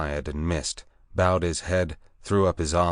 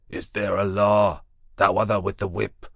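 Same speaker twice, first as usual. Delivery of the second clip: higher beast man voice pleading; anxious beast man voice; 3 semitones higher, 4 dB louder than usual. Acted. Beast folk ask.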